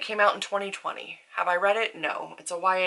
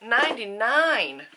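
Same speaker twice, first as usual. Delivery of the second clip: excited correction; 6 semitones higher, 4 dB louder, slower than usual. Real, not acted. Correcting her book count.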